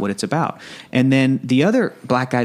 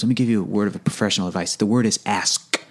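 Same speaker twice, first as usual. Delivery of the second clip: over-enunciating white guy voice; 4 semitones lower than usual. Retold or imitated. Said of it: "over enunciating white guy voice".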